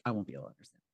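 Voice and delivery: ordinary talk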